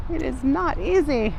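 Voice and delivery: high, laughing exasperation. Real, not acted. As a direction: laugh it out in disbelief. Laughs at own struggle.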